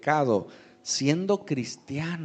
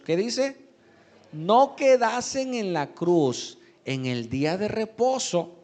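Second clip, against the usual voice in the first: raised, emphatic reading from the pulpit; scripture reading; 4 semitones higher, 4 dB louder than usual. Real, not acted. Preacher reads the crucifixion passage to his congregation, emphatic scripture reading. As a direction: read the verse out to the congregation, pitched up.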